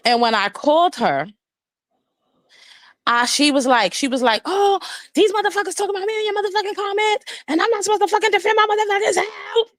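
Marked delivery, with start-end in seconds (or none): 4.5-9.7 much higher, fast whiny mock rant; hammed-up high indignant friend; mocking imitation. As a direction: squeal it out fast, mocking her outrage. Mocking friend's angry phone rant.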